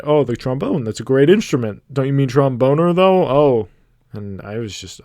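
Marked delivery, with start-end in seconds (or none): 0.0-3.7 mock enthusiasm, rising to a louder jab; sarcastic. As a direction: imitate her sarcastic put-down. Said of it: "very sarcastically said".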